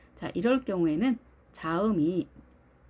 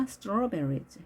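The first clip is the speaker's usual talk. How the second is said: "strawberries" as STRAW-ber-ries; front-stressed, carefully modelled "strawberries"; 3 dB quieter, much slower than usual. Shown as a demonstration. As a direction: put the weight on the first syllable of "strawberries". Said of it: "앞에 있습니다".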